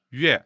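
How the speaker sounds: Mandarin "yue" opening on a rounded ü glide; front rounded glide. Shown as a demonstration. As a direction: model "yue" with tongue front and lips rounded. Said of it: "French nuit or Mandarin".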